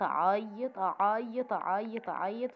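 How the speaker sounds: slow, singsong retelling of endless crying; drawn-out repetition. Retold or imitated. Wife recounts crying after the row, slow drawn-out repetition. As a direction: stretch each repeat to show it dragging on. Dramatizes how long she cried.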